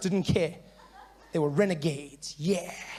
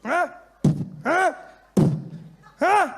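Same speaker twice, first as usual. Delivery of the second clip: police yell; 10 semitones higher, 5 dB louder, much slower than usual. Retold or imitated. Police beating people, mimicked.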